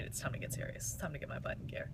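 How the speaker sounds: hushed, determined self-talk; quietly deciding to get serious about the business; whispered resolve. Retold or imitated. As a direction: whisper a pep talk to yourself.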